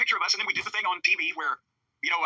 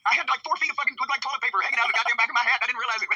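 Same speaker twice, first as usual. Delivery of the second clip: higher voice breaking toward a laugh; amused, near laughing; 4 semitones higher than usual. Real, not acted. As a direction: tell your own mishap while cracking up. Amused at own mishap, laughs after.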